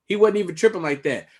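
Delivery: normal talking voice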